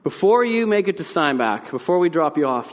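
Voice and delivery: put-on grandma telling the boys to memorize scripture, lightly stern. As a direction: lay down grandma's rule, lightly voiced. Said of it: "she says".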